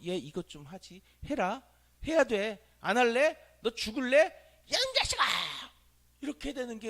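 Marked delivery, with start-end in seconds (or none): 0.1-5.2 building from plain to a loud, high yell; escalating yell. Retold or imitated. Preacher voicing a parent who loses it with a child, building to a loud yell. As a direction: lose your temper step by step.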